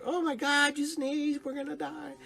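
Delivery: playful fake terror to break the tension; mock panic. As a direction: shriek it like a hammed-up doomsday alarm. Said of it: "I'm like".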